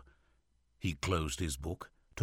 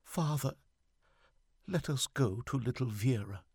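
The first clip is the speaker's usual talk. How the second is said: higher-pitched pleading, as a mother; narrated sob, voiced as a high plea; tearful pleading; 7 semitones higher than usual. A narrator's reading. Wife begging her husband to visit their daughter, tearful.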